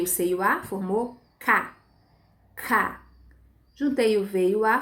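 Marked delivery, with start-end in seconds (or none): 1.4-1.8 "ca" slow and set apart; teacher's separate, measured "ca"; sounding out syllables. Shown as a demonstration. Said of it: "Aí eu vou formar sílabas". 2.5-3.1 "ca" as a lone beat after a pause; teacher repeating "ca" as a separate block; sounding out syllables. Shown as a demonstration. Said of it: "Aí eu vou formar sílabas".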